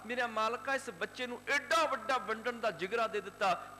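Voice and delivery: a grandmother in tears calls out to the Lord; tearful prayer. Acted. Tearful grandmother prays to God. (ਰੋਂਦੀ ਨਾਨੀ ਦੀ ਉੱਚੀ ਅਰਦਾਸ)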